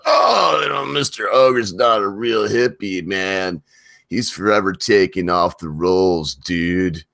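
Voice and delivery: lightly voiced stoner hippie, a high yelp on "Oh" then drawn out; mock hippie purist. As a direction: tease the purists with a half-hearted surfer-dude voice. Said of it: "purists would be like".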